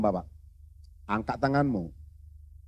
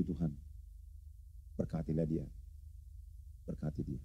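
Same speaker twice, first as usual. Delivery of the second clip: quiet prayer; 4 semitones lower, 5 dB quieter than usual. Retold or imitated. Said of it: "Saya katakan".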